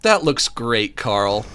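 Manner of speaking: condescending praise, falling away on the name; Jimmy. Acted. Jimmy praising Carl's frog drawing, patronising. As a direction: humour him as if he were a toddler. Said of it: "it's like he's talking to a toddler".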